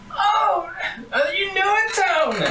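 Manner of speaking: high, eager granny voice; old granny. Acted. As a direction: call out brightly like a sweet old woman. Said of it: "she goes".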